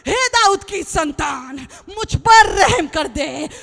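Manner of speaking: pleading cry. Acted. Blind beggar begging the Son of David for mercy, loud plea. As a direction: call out for mercy, drawn out. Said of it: "पता ये क्या चिल्ला रहा है?".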